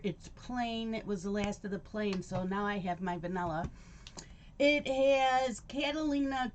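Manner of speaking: talking while chewing cereal; words around a mouthful of food; mouth full. Real, not acted. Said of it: "I'm eating my cereal while we're chatting".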